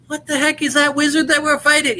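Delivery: mock confused player. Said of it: "they're gonna be like".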